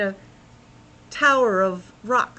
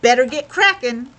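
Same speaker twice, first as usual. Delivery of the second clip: urgent; 3 semitones higher, 8 dB louder than usual. A narrator's reading. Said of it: "he said urgently".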